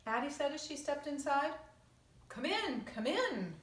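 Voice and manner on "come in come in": faraway call. Acted. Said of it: "a faraway voice called".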